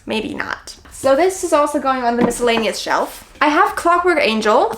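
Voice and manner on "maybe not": breathy whispered aside. Retold or imitated. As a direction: drop to a whisper, doubtful. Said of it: "I was like".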